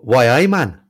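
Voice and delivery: loud, hammed-up mock Geordie accent; bad Geordie attempt. Shown as a demonstration. Host badly tries Geordie on a guest from the northeast, hammed-up accent. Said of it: "that was a very bad attempt".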